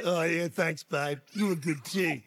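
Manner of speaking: low, modest husband voice; bashful Daddy Bear. Acted. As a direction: accept praise low and offhand. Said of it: "And he's like".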